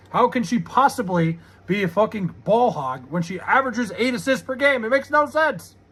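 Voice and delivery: exasperated, rising disbelief; Jerry Seinfeld yell. Real, not acted. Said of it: "I'm yelling in the Jerry Seinfeld voice".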